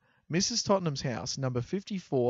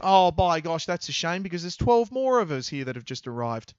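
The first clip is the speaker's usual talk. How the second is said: hammed-up sweep; 3 semitones higher, 7 dB louder than usual. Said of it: "vaudeville acting".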